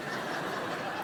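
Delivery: airless wheezing laugh; breathless silent laugh. Real, not acted. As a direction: laugh with no voice at all. Laughing at the pool story.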